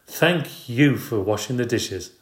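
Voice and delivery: slow, pointed sarcasm; wife sarcastic about the unwashed dishes. Acted. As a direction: thank him without meaning it. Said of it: "she was being sarcastic".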